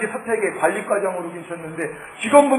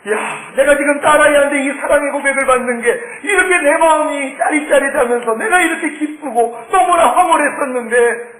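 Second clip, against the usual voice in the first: moved exclamation; 5 semitones higher, 3 dB louder than usual. Retold or imitated. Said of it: "엄청나게 울었습니다".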